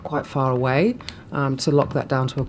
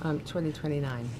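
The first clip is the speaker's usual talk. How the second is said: losing voice; 3 dB quieter than usual. Real, not acted. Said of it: "Sorry, I'm losing my voice".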